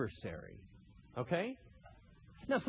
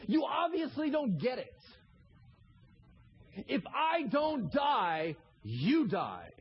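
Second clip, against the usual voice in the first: higher and louder, building rebuke; preaching at full force; 9 semitones higher, 3 dB louder than usual. Acted. Jesus rebuking Peter in a loud, high voice. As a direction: hammer the accusation home.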